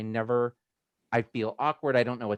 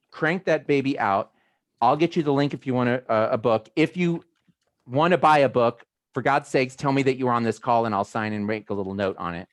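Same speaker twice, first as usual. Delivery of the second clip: loud pitch; 4 dB louder than usual. Real, not acted. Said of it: "pitching loudly".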